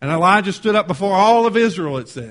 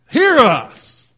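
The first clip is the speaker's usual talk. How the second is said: higher, much louder mock plea; calling out; 6 semitones higher, 10 dB louder than usual. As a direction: cry out as desperate worshippers calling their god. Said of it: "they called on the name of Baal".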